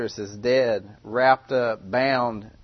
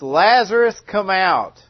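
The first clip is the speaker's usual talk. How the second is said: shouted high and loud, ringing out; loud cry; 6 semitones higher, 7 dB louder, slower than usual. Acted. Jesus crying out to Lazarus before the crowd, loud. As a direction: cry out so the whole crowd hears. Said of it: "He cried out with a loud voice".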